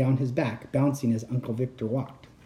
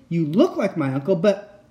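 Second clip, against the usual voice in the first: scared insisting; 4 semitones higher, 3 dB louder than usual. Acted. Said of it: "I insisted".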